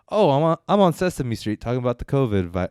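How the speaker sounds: mock thrill of sudden fame; newly famous guy. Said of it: "he gets a little famous".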